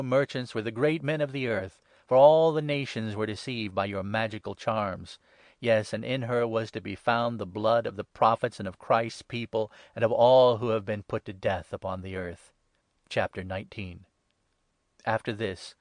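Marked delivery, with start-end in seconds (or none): none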